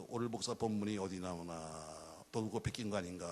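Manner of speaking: low, drawn-out mimicry of a doubter; mock skeptical musing. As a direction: muse slowly and low, as if to yourself. 미심쩍어하는 청중의 속말 흉내. (낮고 느리게 의심하는 혼잣말 흉내)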